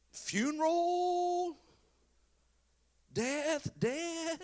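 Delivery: high, drawn-out questioning; incredulous mourners. Acted. Mourners hint to Jesus it's a funeral, incredulous. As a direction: stretch it high as if stating the obvious.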